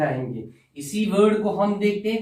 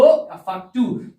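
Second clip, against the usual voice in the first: a slower, fuller and louder reply; answer louder; 2 semitones higher, 3 dB louder than usual. Pretend. Pupil repeats the answer louder after the teacher asks. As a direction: speak up clearly so the teacher can hear. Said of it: "जोर से बोलो".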